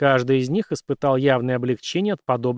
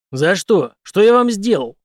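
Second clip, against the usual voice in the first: surprised; 7 semitones higher, 9 dB louder, slower than usual. A narrator's reading. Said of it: "удивился Генри".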